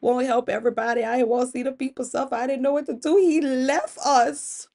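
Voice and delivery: acted distraught confession, climbing in pitch; hammed-up tearful pleading; tearful outburst. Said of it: "Oshun just burst into tears".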